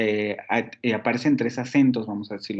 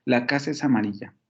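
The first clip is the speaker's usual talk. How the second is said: "es" barely stressed, run into "casa"; "es" debilitado. Shown as a demonstration. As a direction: let "es" go weak, merged with the word before. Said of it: "se escucha muy débil esa". ("es" átono, muy débil y pegado a "casa")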